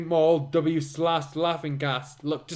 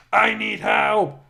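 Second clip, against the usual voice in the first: high, loud, slow cry for help; desperate plea; 6 semitones higher, 6 dB louder, slower than usual. Acted. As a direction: beg for help in a put-on voice. Mary begs for help.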